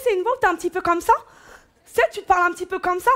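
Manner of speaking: lightly put-on gold-digger voice; michto voice. Shown as a demonstration. Comedian showing off her michetonneuse voice, lightly put on. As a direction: demonstrate a michto's way of talking, quickly. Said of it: "très bien faire la voix de michto".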